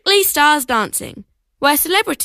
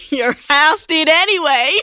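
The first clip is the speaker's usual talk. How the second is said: laughing; 4 semitones higher, 4 dB louder than usual. Acted. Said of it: "with a laugh".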